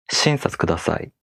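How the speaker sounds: wrongly accent the Shin of Shinsatsu kudasai; quick SHIN-satsu kudasai, dropping after Shin; accent on first syllable. Shown as a demonstration. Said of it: "accent on the first syllable".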